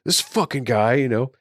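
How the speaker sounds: mildly acted exasperation; upset. Austin gets upset during the police visit, upset grumbling. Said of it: "Austin starts getting upset too".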